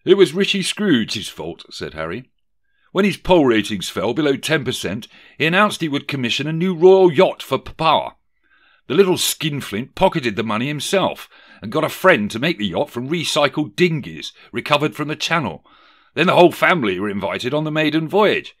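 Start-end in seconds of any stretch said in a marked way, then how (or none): 0.0-1.7 high, loud accusation; lightly voiced Harry. Harry blaming Scrooge to Megan, lightly dramatised. 2.9-18.5 higher, louder dramatised account; lightly voiced Harry. Harry explaining the disaster to Megan, lightly dramatised. Acts Harry telling the tale.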